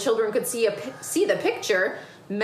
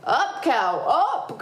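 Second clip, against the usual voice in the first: urgent cry; 5 semitones higher, 3 dB louder, much slower than usual. Acted. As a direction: command climbing high. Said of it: "Grandude cried".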